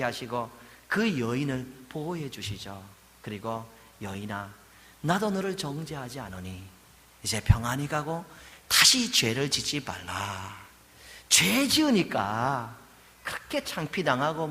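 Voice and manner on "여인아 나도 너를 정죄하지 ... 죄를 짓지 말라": tender. Acted. Jesus speaking tenderly to woman.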